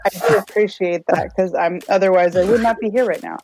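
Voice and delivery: eating while talking; chewing noisily. Real, not acted. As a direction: talk through a mouthful. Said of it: "I'm eating halfway through this".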